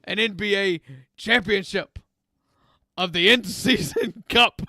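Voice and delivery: lightly voiced mall Santa, a bit scratchy. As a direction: play a grumpy smoker Santa, only slightly put on. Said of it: "I don't know what this accent is that Santa is using".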